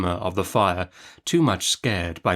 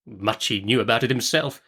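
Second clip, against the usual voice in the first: aside. Acted. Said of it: "said Miss Betsy in a parenthesis".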